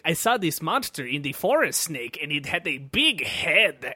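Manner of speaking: put-on slow and wide-eyed like a kid. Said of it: "He's like".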